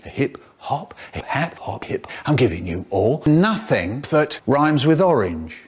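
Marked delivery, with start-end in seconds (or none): 0.0-2.1 soft refrain. Acted. Refrain again.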